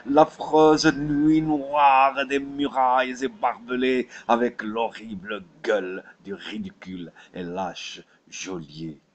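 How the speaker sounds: rising from firm to loud, high-pitched fervour; building declamation. Acted. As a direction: build steadily to a ringing, impassioned peak. Climax of the recited poem.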